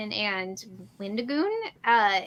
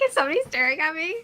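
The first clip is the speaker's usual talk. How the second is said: nervous; 6 semitones higher, much faster than usual. Retold or imitated. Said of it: "I would be like".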